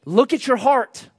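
high, slow, forceful challenge; loud and strong. Acted. Preacher voicing harsh Jesus to his hearers, loud and strong. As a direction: push each word to break through. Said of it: "say things real loud and real strong".

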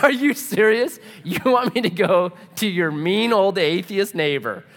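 acted-out protest at an absurd request; incredulous pushback, played for laughs.

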